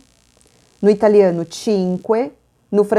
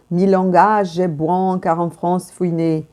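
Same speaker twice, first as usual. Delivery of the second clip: French pronunciation. Shown as a demonstration. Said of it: "Pronúncia francesa".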